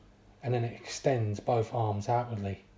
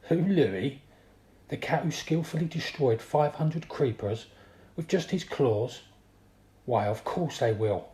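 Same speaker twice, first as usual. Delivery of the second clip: chuckling; 4 semitones higher, 4 dB louder than usual. Acted. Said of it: "I reply with a chuckle".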